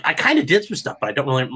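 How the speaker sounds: a mumbled half-hearted EMT voice; lightly mumbled imitation of a shrugging EMT; mock bumbling witness. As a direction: play a witness dodging the question, mumbling. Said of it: "these guys get up and stand like".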